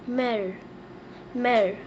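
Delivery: "mère" as a short falling "mer"; teacher modelling "mère"; French pronunciation. Shown as a demonstration. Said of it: "We say mother in French".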